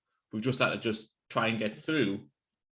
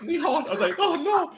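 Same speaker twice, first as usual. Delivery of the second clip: mock heartbreak. Retelling his crushed idea.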